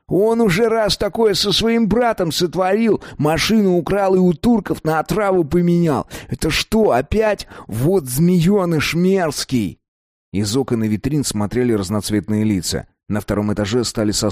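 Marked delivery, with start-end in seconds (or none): 0.1-9.8 put-on somewhat higher, indignant young man; a hint of an outraged mate; lightly voiced angry friend. A narrator's reading. Another figure voiced in narration.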